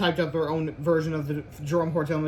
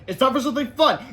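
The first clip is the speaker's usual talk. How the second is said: higher, louder teacher voice; mock cheery teacher; 8 semitones higher, 7 dB louder than usual. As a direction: play the teacher announcing fun.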